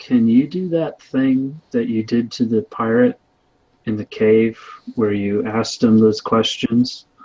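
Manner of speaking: rushed, secretive aside, said sideways. Tabletop player leaning toward Venris, speaking in character, said under the breath. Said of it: "under my breath say".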